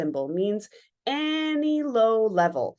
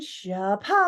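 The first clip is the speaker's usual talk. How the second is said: surge sound. Shown as a demonstration. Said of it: "we've come to call this surge".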